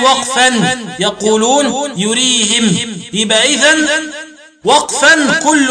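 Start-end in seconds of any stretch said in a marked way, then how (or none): 2.0-2.8 "يريهم" as yurihim; i after the h of "يريهم", stop on m; kasr ha, still mim. Shown as a demonstration. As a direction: end "يريهم" with -him. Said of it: "وقرأوا بإسكان الميم وكسر الهاء".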